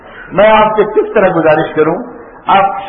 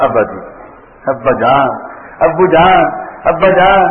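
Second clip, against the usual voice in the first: gentle respectful address; 2 semitones lower than usual. Retold or imitated. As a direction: call him abba jaan gently, with love. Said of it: "عجیب انداز ہے بات کرنے کا". (ابراہیم کا نرم، ادب بھرا لہجہ)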